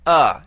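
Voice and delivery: "Uh" as a short neutral vowel; uh sound. Shown as a demonstration. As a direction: say "Uh" like the u in umbrella. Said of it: "it has an uh sound to it".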